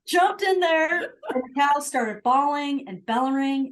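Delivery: words broken up by laughter; laughing while telling. Real, not acted. Laughing through the story.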